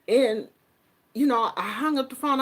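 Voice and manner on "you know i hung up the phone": ordinary talk, nothing marked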